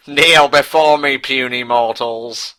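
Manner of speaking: slow, commanding deity; god voice. Pretend. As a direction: command them like an almighty god. Playing God to mock.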